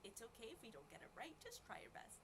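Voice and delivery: soft unvoiced encouraging whisper. Real, not acted. Coaxing the child to guess.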